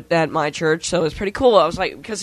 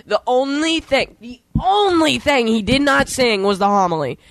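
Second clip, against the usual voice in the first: raised exasperated voice; 4 semitones higher than usual. Real, not acted. Complaining about sung mass.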